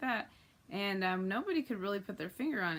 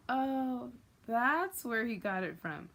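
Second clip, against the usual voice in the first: dawning realization; 3 semitones higher, 4 dB louder, slower than usual. Acted. Acted dawning realization at hearing villain.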